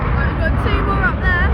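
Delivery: excited. Real, not acted. More jets appear.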